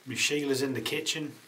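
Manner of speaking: loud, high hammed-up Australian accent; Aussie accent. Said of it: "Shall I?".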